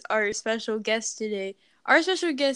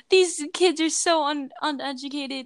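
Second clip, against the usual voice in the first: lightly voiced grumbling boomer; a hint of indignant old-timer; mock boomer. Boomers complaining about uneducated kids, mock boomer. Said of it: "All the boomers are gonna be like".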